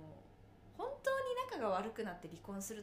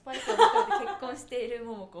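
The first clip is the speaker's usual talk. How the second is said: laughing; 13 dB louder than usual. Real, not acted. Teasing friend while laughing.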